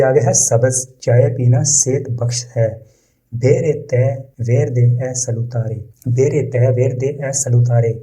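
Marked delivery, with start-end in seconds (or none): 3.3-7.9 very slow, each word laid out for learners; slow model reading. Shown as a demonstration. Teacher reading the Italian example to learners, slow and careful. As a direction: read it slowly so students can repeat. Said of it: "teacher models Italian sentence".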